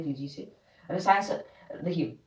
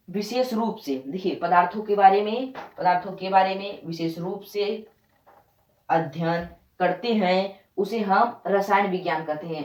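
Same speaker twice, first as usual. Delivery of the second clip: slow dictation. Shown as a demonstration. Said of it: "अब हम इसे ऐसे पढ़ेंगे".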